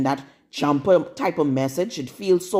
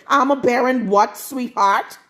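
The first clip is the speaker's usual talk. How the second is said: sarcastic challenge; 5 semitones higher than usual. Real, not acted. Scolding a rival woman.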